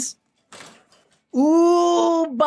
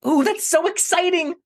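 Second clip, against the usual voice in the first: excited; 5 semitones higher than usual. Acted. Monkey thrilled about shopping list.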